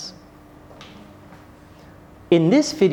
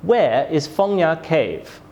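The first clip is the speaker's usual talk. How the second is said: slow, "Where" strong, "Cave" falling; falling question intonation. Shown as a demonstration. Teacher demonstrates a W H question, falling tone on "Cave". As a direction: start firmly on "Where", drop on "Cave". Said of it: "We use falling intonation at the end".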